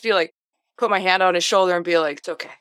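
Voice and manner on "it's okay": soft, low reassurance; gentle consoling. Pretend. Host consoles an actor stuck in a bad film, gently and softly. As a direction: say it quietly, like a hand on the shoulder.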